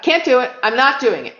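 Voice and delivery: acted-out digging in of heels; retold firm refusal. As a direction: put your foot down in a quoted thought.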